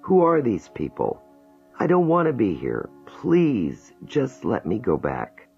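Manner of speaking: a woman overwhelmed and begging to go back; terrified pleading. Acted. Jane in regression, begging the hypnotist to let her go back. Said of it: "She begins sobbing".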